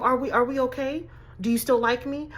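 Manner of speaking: anxiously fish for reassurance, lightly mocking; mildly mocked clingy questioning; validation seeking. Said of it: "seeking that validation for no reason".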